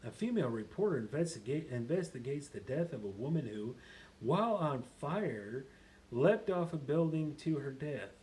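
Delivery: lightly put-on animated reader; theatrical, swooping film description; Happy. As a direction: read the blurb with big stressed openings. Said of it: "just to get you back in character".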